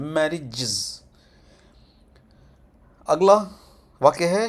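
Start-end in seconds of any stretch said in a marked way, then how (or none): 0.0-1.0 "मैरिजेस" slow and softer, light last syllable; very light ending. Shown as a demonstration. Teacher showing a lightly spoken ending, soft and slow. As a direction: ease off softly on the end of "मैरिजेस". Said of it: "बहुत हल्का बोलना है".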